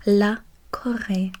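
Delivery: "La Corée" slowly, in French; French pronunciation. Shown as a demonstration. Tutor repeating Korea in French for the student, "La Corée" slowly pronounced. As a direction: draw out "La Corée" with a clear final é. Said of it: "there's an accent at one of the E's".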